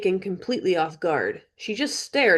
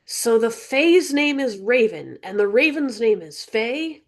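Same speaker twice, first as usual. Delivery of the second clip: slow, higher and louder puzzled question; baffled question; 5 semitones higher, 4 dB louder, slower than usual. Acted. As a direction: spell out the confusion slowly. Zoe confused by names.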